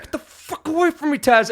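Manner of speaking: high, laughing get-away yell. Retold or imitated. Pushing the dog-patting friend away, high laughing yell. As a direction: shoo him off, half laughing. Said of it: "I'm like".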